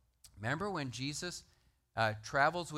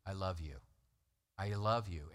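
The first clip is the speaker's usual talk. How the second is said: tender love; 8 semitones lower than usual. Retold or imitated. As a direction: say it gently like a loving friend. Jesus voiced tenderly to Judas.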